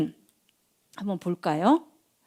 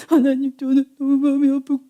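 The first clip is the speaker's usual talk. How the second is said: higher-pitched acted sobbing; mock tearful prayer; 5 semitones higher than usual. Hannah praying to God about her pain, acted crying. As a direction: sob through the prayer, hammed-up. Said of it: "막 이렇게 울면서 기도했어요".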